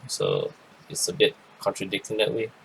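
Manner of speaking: talking through a yawn; stretched, sleepy yawn mid-phrase. Real, not acted. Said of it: "I was yawning there".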